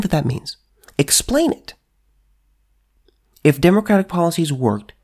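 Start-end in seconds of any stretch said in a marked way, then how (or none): 1.0-1.7 "Explain it" whispered, high and tense; whispered dare. Real, not acted. Daring viewers to explain why people move, whispered. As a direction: breathe the challenge.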